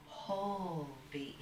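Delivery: "whole beings" drawn out slowly, beings in two syllables; "whole beings" said slowly and deliberately; emphasized BE-INGS. Real, not acted. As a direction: stretch "whole", then split "beings" into BE-INGS. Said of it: "emphasizing the, this vitality".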